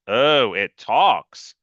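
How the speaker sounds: slow, dry mock surprise; drawn out, mildly sarcastic. Small Freak mocking the big kid, slow and dry.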